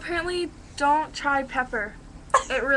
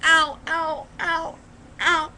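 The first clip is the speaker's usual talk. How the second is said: stinging pain; 3 semitones higher, much slower than usual. Real, not acted. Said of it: "that stings".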